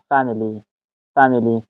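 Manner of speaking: فامیلی stressed on "FAM"; first-syllable stress. Shown as a demonstration. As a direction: hit the opening syllable of فامیلی, "FAM-ily".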